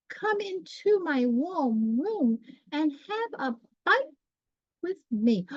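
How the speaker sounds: high, slow mouse voice inviting her in; kindly field mouse. A narrator's reading. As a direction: welcome her in a sweet squeak. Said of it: "kindly field mouse".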